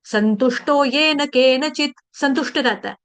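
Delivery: slow measured chanting of a Sanskrit shloka; verse recitation. Shown as a demonstration. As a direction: intone the verse slowly and evenly.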